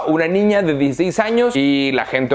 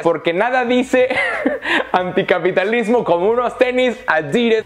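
sarcastic line broken by a laugh; laughing sarcasm; 5 semitones higher than usual. Real, not acted. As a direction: laugh at the irony. (sarcasmo entre risas)

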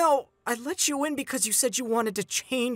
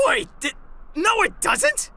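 protesting; 9 semitones higher, 3 dB louder than usual. Acted. Protesting loudly.

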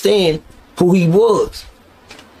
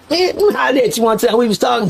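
high mock white accent; imitating white talk in a raised voice; Blue's white accent; 7 semitones higher than usual. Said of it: "Blue had the accent".

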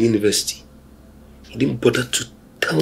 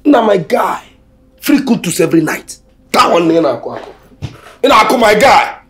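gleeful whooping; 11 semitones higher than usual. Acted. Friend whooping with delight at the dream confession. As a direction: cheer your friend on, delighted.

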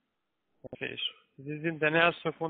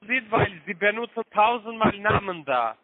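raised, higher angry voice; angry insults; 5 semitones higher, 4 dB louder than usual. Real, not acted. Angry caller shouting insults at the man he phoned. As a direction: scammer snaps back, pitch raised.

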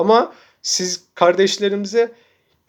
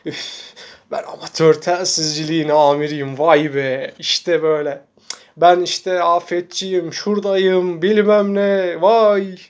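mocking a show-off; slower than usual. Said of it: "Güldürüyorsunuz, komik".

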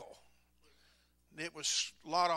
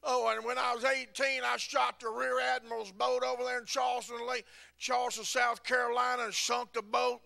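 higher-pitched, earnest blurting; earnest confession; 6 semitones higher than usual. Retold or imitated. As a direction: confess it in all seriousness, pitched up. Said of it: "I'm just serious".

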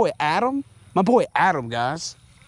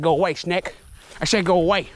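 raised, insistent shoo at a snake; 5 semitones higher than usual. Real, not acted. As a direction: say it again, firmer.

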